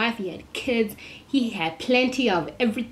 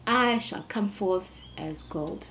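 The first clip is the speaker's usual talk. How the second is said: quiet solemn quote; 7 dB quieter, slower than usual. Retold or imitated. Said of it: "he's like".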